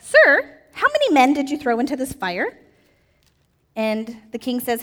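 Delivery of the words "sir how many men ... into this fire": startled official. Acted. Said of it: "they said".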